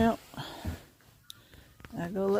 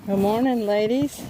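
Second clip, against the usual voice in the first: louder, lilting hello to hens; sing-song chicken greeting; 4 semitones higher, 4 dB louder than usual. Real, not acted.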